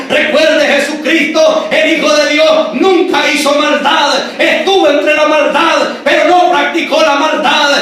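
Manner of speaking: forceful, driving preacher delivery; prédica enérgica. Real, not acted. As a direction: preach it out with insistent, ringing conviction. (predicación enérgica y enfática)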